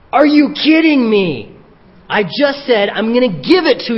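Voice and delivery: mock exasperation at someone not getting it; exasperated disbelief. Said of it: "I just picture Jesus here".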